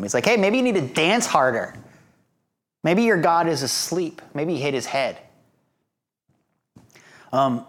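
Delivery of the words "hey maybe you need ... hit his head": mildly mocking, offhand suggestions; teasing mockery. Elijah teasing the priests of Baal, mildly mocking. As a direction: poke light fun at them. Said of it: "he starts making fun of him".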